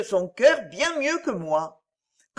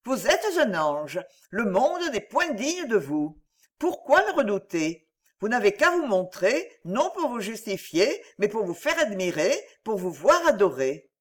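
tender comfort. Acted. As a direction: soothe her like a weeping child. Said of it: "en la serrant contre son cœur".

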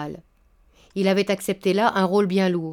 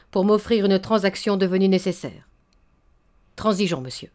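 dry businesslike. Acted. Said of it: "la voix sèche d'un homme qui traite une affaire".

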